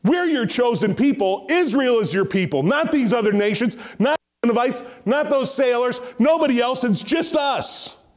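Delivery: mock Jonah demanding God's favour only for his own people; entitled bigot's demand. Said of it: "He's basically saying".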